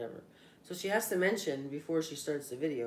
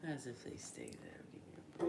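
whispered aside; 6 semitones lower, 14 dB quieter, much slower than usual. Real, not acted. Sarcastic aside about snacks.

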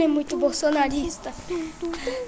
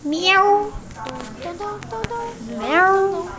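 cat meow; much slower than usual. Pretend. Imitating cat.

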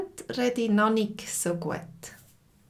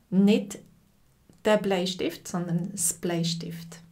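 „der“ gegen „das“ betont gegenübergestellt; Kontrastbetonung. Shown as a demonstration. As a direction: den Artikel „das“ gegen „der“ absetzen. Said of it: "Artikel der gegen das". („sondern das Bleistift“ mit Kontrast auf „das“)

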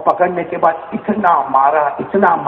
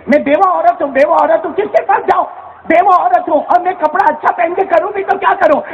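mother's lament; 5 semitones higher than usual. Acted. Widow mother voiced, lamenting.

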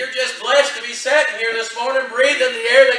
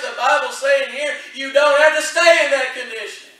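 impassioned preaching, louder; 4 dB louder than usual. Acted. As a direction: drive the sermon home to the congregation. Preaching at full force.

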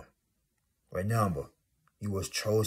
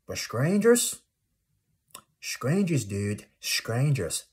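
mock disbelief; 4 semitones higher, 3 dB louder, slower than usual. Real, not acted. Incredulous rhetorical question.

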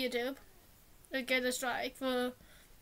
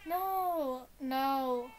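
drawn-out, dismayed no; acted dismay. Storyteller reacting to the frightened girlfriend's plea, drawn-out dismay. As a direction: stretch each no in mock distress.

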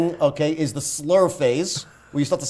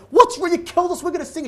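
panicked wife; 13 semitones higher, 4 dB louder than usual. Retold or imitated. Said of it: "And she's freaking out".

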